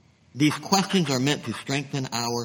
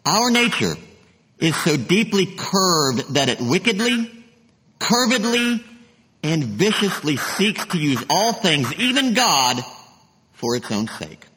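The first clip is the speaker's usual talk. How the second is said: reading Luther aloud. Shown as a demonstration. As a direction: proclaim the quotation with rising force. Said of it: "Luther writes this".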